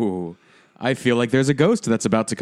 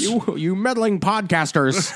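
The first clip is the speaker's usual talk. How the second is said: laughing villain quote; 5 semitones higher, slower than usual. Pretend.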